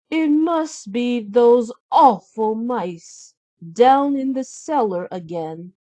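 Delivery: sly cartoon stepmother plotting chores; a hint of a sneering stepmother. Stepmother voiced.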